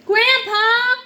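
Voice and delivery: high, loud cry of Grandpa!; wailing for grandpa. Acted. Anna crying out to Grandpa after the crash, high and loud. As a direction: call out for help, upset.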